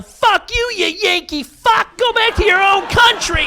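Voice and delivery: high-pitched yell of mock outrage; imitated angry heckling. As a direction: yell it like an irate Australian heckler. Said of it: "guys in the audience start yelling".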